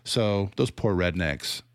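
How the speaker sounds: slow, drawn-out pitying tone; mock pity. Critic repeats the pitying line, slow and condescending. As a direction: savour each word with fake sympathy. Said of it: "it's super condescending".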